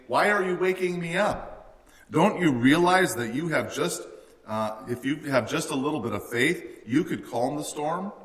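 impatient teacher, woken for nothing; exasperated Jesus. Retold or imitated. Preacher voicing Jesus to the frightened disciples, exasperated. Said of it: "as if Jesus is saying".

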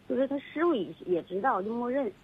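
faint voice off the mic; far from phone. Real, not acted. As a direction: mouth turned away from phone. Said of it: "你这手机你别老动".

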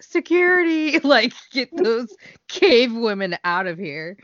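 high mock cry for security; mock alarmed call. Staff spotting wild fans in the audience, mock alarmed call.

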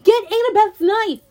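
loud, high urgent order; yell. A narrator's reading. Hero orders friend across the bridge, urgent yell. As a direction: shout across the chasm. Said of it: "I yelled".

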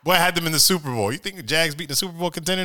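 high and fast, fired up; gloat, fast and high; hyped up. Real, not acted. Celebrating win, hyped.

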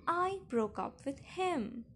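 high, emphatic slow retort; shouting back. A narrator's reading. Daughter zipping her bag behind the door, shouting back. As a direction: shout it back, stretching the words. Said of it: "I shouted back".

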